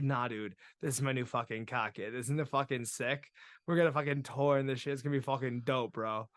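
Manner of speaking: Boston bro hyping his purchase; Boston kid with dropped r's; thick Boston accent. Acted. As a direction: brag in a broad Boston accent. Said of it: "he's got the thickest Boston accent".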